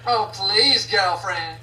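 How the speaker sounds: put-on valley girl voice.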